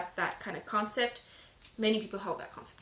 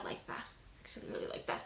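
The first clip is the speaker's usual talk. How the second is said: whispered aside; 11 dB quieter than usual. Real, not acted. Aside to herself mid-reading.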